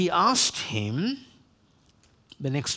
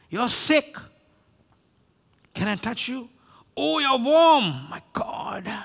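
alarmed busybody; 7 semitones higher than usual. Acted. Visitor feels a believer's forehead, mock alarm. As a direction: play the overconcerned visitor, pitch up high. Busybody fussing over someone looking sick.

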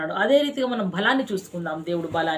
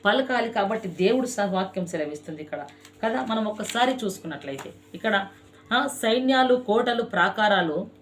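sermon. Acted. Pastor preaching to his congregation, fervent and rhythmic. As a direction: preach it with repeated cries of దేవుడే.

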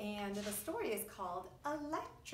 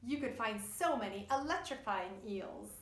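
put-on reading to children. A narrator's reading. Reads rhyming story to children.

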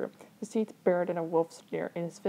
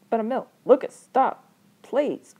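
louder, higher, broken-up plea; urgent plea; 5 semitones higher, 10 dB louder, slower than usual. Acted. Bystander begging two brothers to stop, urgent plea. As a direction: call out to stop them.

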